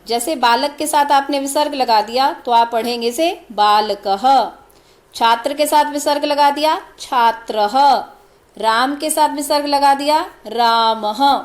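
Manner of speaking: बालकः छात्रः रामः each ending in a breathy ah echo; visarga reading. Shown as a demonstration. Teacher shows how visarga is read, ending on an ah sound. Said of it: "विसर्ग को अह पढ़ा जाता है".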